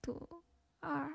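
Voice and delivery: giggling while trying the dialect tones; can't keep a straight face saying it, broken up by laughs; laughing through it. Shown as a demonstration. Streamer cracks up trying Shandong tones, laughing. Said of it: "是不是山东话".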